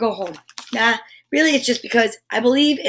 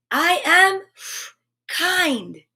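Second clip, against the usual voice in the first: gentle affirmation; 6 semitones higher, much slower than usual. Shown as a demonstration. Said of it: "Try that one".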